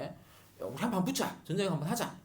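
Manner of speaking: mock brash call to fight; cocky challenge. Southern king challenging the stronger north, hammed-up brash taunt. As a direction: play the upstart king picking a fight. Judah challenging Israel to war.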